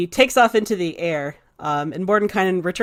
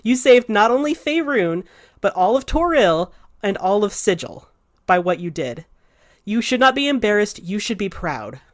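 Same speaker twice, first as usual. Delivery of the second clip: earnest pep talk. Acted. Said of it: "he says".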